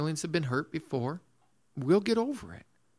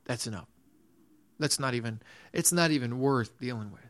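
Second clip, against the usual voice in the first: low-key, lower dismissal; indifferent shrug; 3 semitones lower than usual. Acted. Preacher voicing someone indifferent to an issue, shrugging it off. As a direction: say it with a verbal shrug, letting it drop. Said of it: "shrug your shoulders and say".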